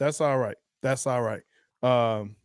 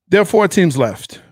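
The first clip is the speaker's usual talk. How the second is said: announcer; 4 semitones higher, 10 dB louder than usual. Real, not acted. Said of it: "announcing the final four".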